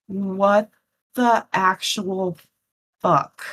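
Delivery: slow, word-by-word disbelief; stunned disbelief. Acted. Staring at where Patch vanished, slow stunned disbelief. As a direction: drag it out, pausing between words.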